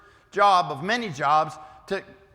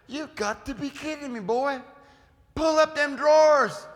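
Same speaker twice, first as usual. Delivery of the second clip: scolding an elder; 6 semitones higher than usual. Retold or imitated. Preacher quoting himself scolding a boy about his pants, exasperated. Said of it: "I say".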